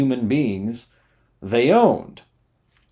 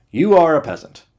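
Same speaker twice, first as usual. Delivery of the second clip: louder, higher blunt declaration; mock softened insult; 6 semitones higher, 6 dB louder than usual. Comedian bluntly tells audience they are peasants, louder. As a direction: pretend to soften it, then say it flatly. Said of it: "here's my attempt at taking the edge off".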